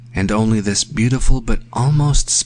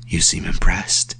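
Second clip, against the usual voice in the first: lightly gentle, lower-pitched character line; 4 semitones lower than usual. A narrator's reading. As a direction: say it with a touch of low sweetness. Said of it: "very gently, and his voice sounded sweet and low".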